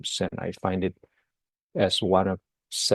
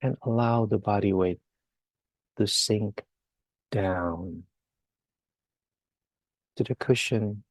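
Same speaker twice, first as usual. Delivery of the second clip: guided meditation. Real, not acted. Teacher leading listeners to relax the entire body, guided meditation. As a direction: ease them down phrase by phrase, unhurried.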